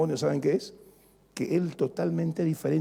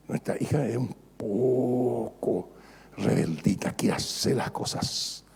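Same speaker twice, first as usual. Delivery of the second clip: madre confidente; 6 semitones lower, slower than usual. Retold or imitated.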